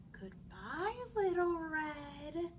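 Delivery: sly wolf. Acted. Wolf calls sweetly.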